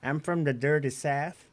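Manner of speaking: slow, put-on Southern drawl; teasing Southern twang; mock Southern accent. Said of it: "you said South".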